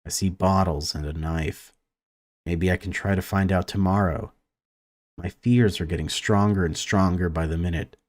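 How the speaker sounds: even, measured read-aloud of game text; story narration. A narrator's reading. Gamer reads a conservatory scene to viewers, story narration. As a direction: narrate it evenly, pausing between sentences.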